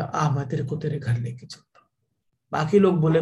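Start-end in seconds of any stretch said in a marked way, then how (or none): 0.0-1.9 calm reassurance. Acted. Wise man calmly comforts him.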